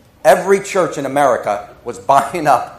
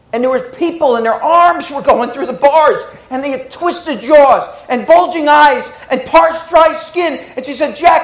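pleading sister; 5 semitones higher than usual. Retold or imitated. Sister describing hell.

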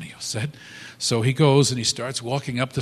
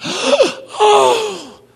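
high, loud cry of delight; surprised cry; 11 dB louder than usual. Retold or imitated. Wife finds the flowers downstairs, a high delighted cry. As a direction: let the "Oh" fly up in delight.

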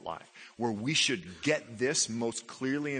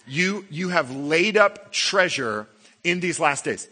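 slow, louder mock praise; sarcastic; 3 semitones higher, 5 dB louder, slower than usual. Shown as a demonstration. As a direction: let the sarcasm drip off treasure. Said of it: "I love it when the Bible is sarcastic".

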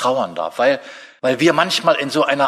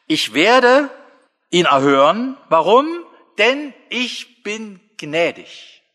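high, loud declaration easing into slow gentleness; exultant promise; 7 semitones higher, 4 dB louder, much slower than usual. Acted. Preacher voices God promising to hear the crying, jubilant then gentle. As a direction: proclaim it, then soften.

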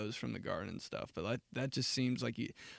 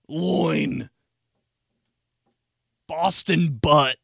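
calling out; 3 semitones higher, 13 dB louder, much slower than usual. Acted. Calling out pig cuts.

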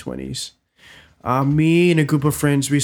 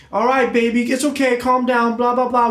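imitated southern mom, higher and a bit booming; slight southern accent; 9 semitones higher, 4 dB louder than usual. Mom comforting her son, imitated slight southern accent. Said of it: "that slight southern accent".

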